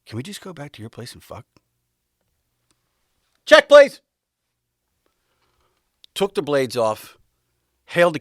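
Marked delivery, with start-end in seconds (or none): 0.1-1.4 hushed, confidential imitation; softly voiced intimate aside; leaning-in proposition. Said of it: "she leans in and goes". 3.4-4.0 high, loud comic shout; sudden mock-urgent holler; urgent call-out. Calling urgently for the bill.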